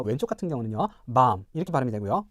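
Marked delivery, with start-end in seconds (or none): 1.1-1.4 밤 as "bahm" with a long open vowel; British long ah. Shown as a demonstration. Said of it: "영국 표준 영어 같은 경우는요".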